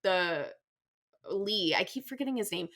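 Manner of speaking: sleepy, slightly slurred words; tired slurring. Real, not acted. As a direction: talk drowsy, words a bit slurred. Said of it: "I got the covid vaccine earlier and I'm very tired now".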